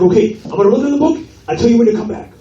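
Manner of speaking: high, quick salon owner voice. Retold or imitated. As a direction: chirp it like the busy owner. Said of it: "He's like".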